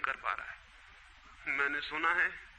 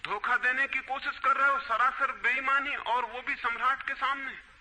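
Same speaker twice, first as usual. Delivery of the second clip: accusing king; 5 semitones higher than usual. Acted. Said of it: "सम्राट ने कहा".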